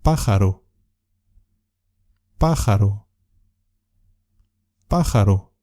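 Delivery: "Pájaro" with the first syllable PÁ hit hard; exaggerated stress. Shown as a demonstration. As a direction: lean on the PÁ of "Pájaro". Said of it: "voy a exagerar un poco el sonido". (acento exagerado en PÁ de "Pájaro")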